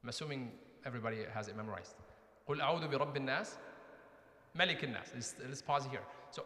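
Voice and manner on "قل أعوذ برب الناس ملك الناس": rapid recited Arabic verse; quick recitation. Shown as a demonstration. Teacher starts the Quran quiz, rapid recitation. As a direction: run through the memorized verse at speed.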